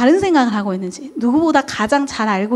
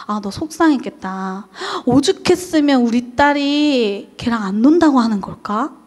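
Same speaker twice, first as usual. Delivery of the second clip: empathetic parent. Shown as a demonstration. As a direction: gently read the child's feelings. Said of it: "마음까지도 읽어주는 거예요". (부드럽게 위로하는 말투)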